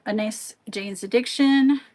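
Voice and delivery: a burp in the words; burping mid-sentence; talking while burping. Real, not acted. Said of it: "Sorry, I'm burping".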